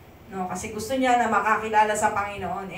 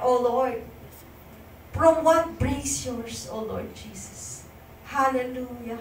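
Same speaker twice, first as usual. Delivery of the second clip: fervent prayer. Acted. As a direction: pray aloud for the church with fervour. Leads congregation in prayer. (taimtim na panalangin)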